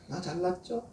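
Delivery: lightly voiced preening Pharisee listing his good deeds; boastful Pharisee. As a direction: show off to God like a proud child. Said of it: "이렇게 기도한 거라니까".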